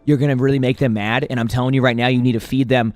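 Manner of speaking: angry commenter rant. Retold or imitated. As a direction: rant at the cat owner, half-hammed. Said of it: "one of the comments is like".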